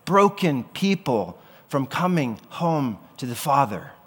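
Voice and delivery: slow, pressed, mildly indignant; a touch of holy anger, leaning on each word; indignant rebuke. Acted. Jesus rebuking the merchants, slow and indignant. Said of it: "And he's saying".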